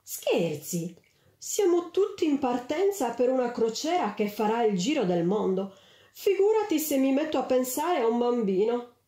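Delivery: a lightly voiced, careless society lady brushing it off; frivolous lady. A narrator's reading. Una signora frivola che liquida l'angelo con leggerezza. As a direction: toss it away like a bored socialite. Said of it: "con aria frivola".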